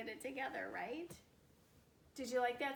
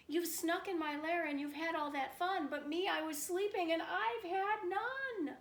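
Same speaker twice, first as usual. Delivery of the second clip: higher, whiny hurt bear; sad sulky bear; 5 semitones higher, 4 dB louder than usual. Acted. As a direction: complain like a left-out bear. Bear's sad complaint.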